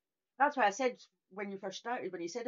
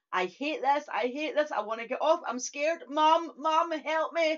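mock child's wail, rising higher; imitated panicked screaming; 6 semitones higher, 4 dB louder, slower than usual. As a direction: imitate a scared kid pleading for mum, building to louder cries. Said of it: "was Laura screaming".

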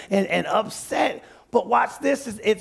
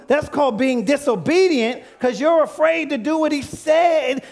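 raised, driving preacher's rebuke; forceful preaching; 4 semitones higher than usual. Real, not acted. Preacher corrects congregation's excuse of wisdom, forceful preaching. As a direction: drive it home to the congregation.

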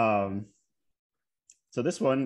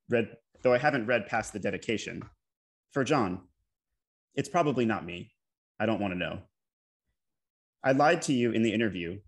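measured poem recital, pauses between phrases; poetry reading. Acted. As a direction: read an elegy aloud, each phrase set apart, settling downward. Reads second elegy aloud to audience.

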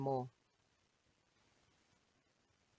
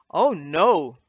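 alarmed cry; 12 dB louder than usual. Acted. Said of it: "said Wizzy".

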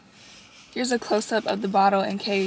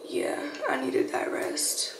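whispering; 5 semitones higher, 5 dB quieter, slower than usual. Real, not acted. Soft aside after oversleeping.

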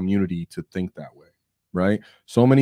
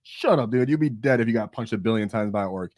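mock exasperation; 2 semitones higher than usual. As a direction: scoff at a ridiculous boast. Mock retort to the boasting hero.

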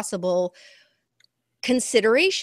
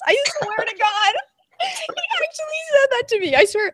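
incredulous insisting; 4 dB louder than usual. Real, not acted. Insisting with disbelief.

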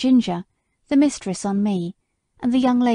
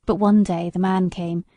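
a hint of a wounded old horse remembering; bitter old horse. Sir Oliver tells of Skye.

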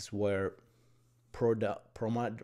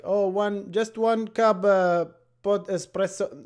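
halting, higher mock order of a struggling speaker; broken English order; 10 semitones higher, 6 dB louder, slower than usual. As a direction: play the newcomer fumbling his Starbucks order, pitched up. Mocking his broken-English coffee order.

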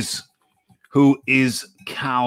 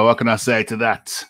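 ordinary delivery

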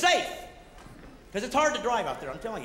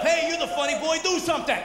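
mock-angry, higher-pitched heckle; angry East Coaster; 4 semitones higher than usual. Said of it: "they're here, but they're angry".

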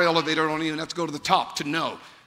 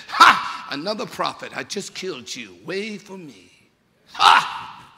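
mocking Satan; 2 semitones lower than usual. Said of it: "Satan stood there and said".

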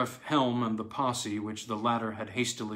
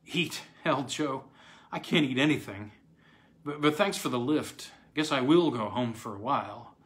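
tight voice. Acted. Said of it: "in a tight voice".

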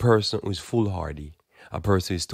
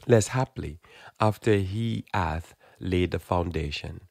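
scripture reading. Acted. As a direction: read it out like holy writ. Reads Luke scripture.

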